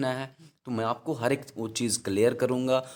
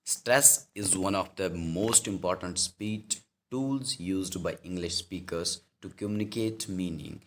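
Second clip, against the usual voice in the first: slow, deliberate dictation of a textbook line; slow definition read-out; 2 semitones lower, much slower than usual. Shown as a demonstration. English teacher reading a definition to students, slow and deliberate. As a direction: read it out slowly for students to note down.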